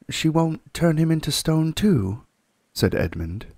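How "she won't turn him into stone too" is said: put-on raised boy's anxious question; nervous boy asking; Edmund's voice. Edmund asking Mr Beaver, anxious boy voice.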